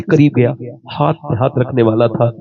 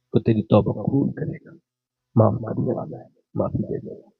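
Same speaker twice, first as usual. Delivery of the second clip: lower, much softer heartfelt preaching; soft tender preaching; 3 semitones lower, 6 dB quieter than usual. Acted. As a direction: speak it softly as if near tears. Soft emotional sermon. (نرم اور دھیمی جذباتی خطابت)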